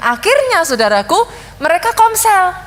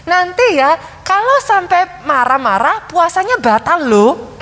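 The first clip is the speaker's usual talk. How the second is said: parent's warning; slower than usual. Retold or imitated. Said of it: "orang tuanya supaya ngasih tahu anaknya".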